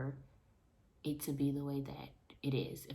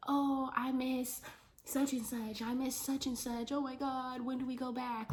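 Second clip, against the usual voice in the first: mock whimper; 9 semitones higher than usual. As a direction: whine it like a sad little kid. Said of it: "I sat in my bed and I'm like".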